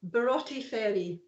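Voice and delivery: Barotti Ferry said the Scots way, with a throaty sound in Broughty; pronunciation challenge. Shown as a demonstration. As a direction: demonstrate Barotti Ferry as a Scottish place name. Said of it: "Try this one".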